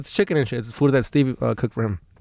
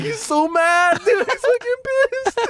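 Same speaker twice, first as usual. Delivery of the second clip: much higher, strained, slowing on the last words; paranoid panic; slower than usual. Retold or imitated. Paranoid guy in the bathroom convinced his friend is furious, panicked high voice. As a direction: freak out that he's furious.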